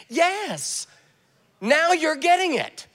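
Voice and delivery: high, emphatic yes; delighted approval. Retold or imitated. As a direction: exclaim like a teacher whose student gets it. Delighted answer to student's insight.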